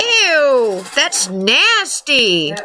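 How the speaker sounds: slow disgusted drawl. Real, not acted. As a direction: stretch out nasty in disgust. Disgusted at teammate's language.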